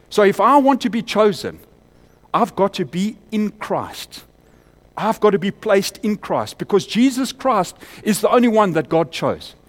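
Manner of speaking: loud preaching. Real, not acted. Preaching at full force.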